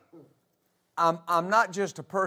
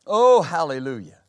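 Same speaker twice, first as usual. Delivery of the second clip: joyful exclamation; 4 semitones lower, 6 dB louder than usual. Real, not acted. Preacher exclaims praise.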